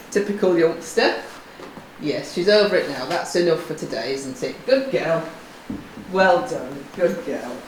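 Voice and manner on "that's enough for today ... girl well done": ordinary talk, nothing marked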